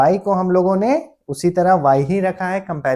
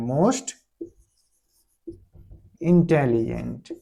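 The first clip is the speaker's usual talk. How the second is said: slow dictation; 3 semitones lower, 4 dB quieter, much slower than usual. Shown as a demonstration. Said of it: "और superlative most लगाकर".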